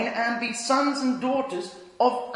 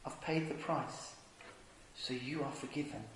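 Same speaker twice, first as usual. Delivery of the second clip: hushed whisper; 8 semitones lower, 15 dB quieter than usual. Acted. Jesus on the cross forgiving us, whispered softly. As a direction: breathe it like words from the cross.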